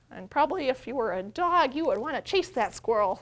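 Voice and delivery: ordinary talk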